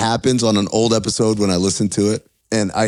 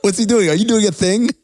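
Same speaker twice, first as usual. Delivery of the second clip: higher, questioning mock puzzlement; retold bafflement; 9 semitones higher than usual. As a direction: play confused by a friend's bit. Retells own puzzled reaction to friend.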